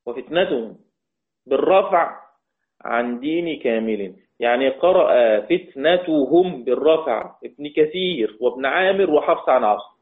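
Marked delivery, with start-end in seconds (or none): 0.1-4.2 عن دين كامل said slowly, drawn out; slow recitation. Shown as a demonstration. Teacher repeating the verse phrase, slow.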